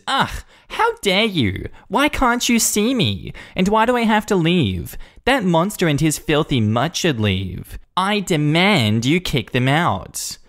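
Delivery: how dare you, utterly offended; indignant Karen. Acted. Karen told to leave, shrill affronted demand.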